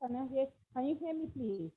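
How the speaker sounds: very faint voice, far from the mic; almost inaudible, faint and distant; barely audible. Real, not acted. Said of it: "Your voice is very low".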